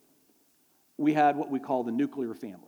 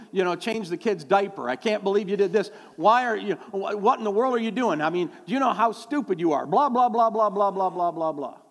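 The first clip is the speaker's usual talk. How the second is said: nagging spouse; 4 semitones higher, 3 dB louder than usual. Retold or imitated. Pastor mocks nagging spouse.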